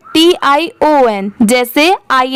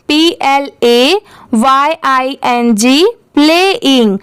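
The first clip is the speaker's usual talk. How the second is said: unhurried letter-by-letter drill; slow repeat-after-me spelling; slower than usual. Shown as a demonstration. Teacher asks learners to repeat after her, slow spelling. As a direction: spell it out slowly, then say the word. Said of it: "आप भी मेरे बात repeat करिए".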